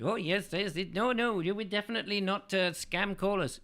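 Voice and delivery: high-pitched imitated Indian accent. Scam caller denies it to the host, mock Indian accent. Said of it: "they do in their Indian accent".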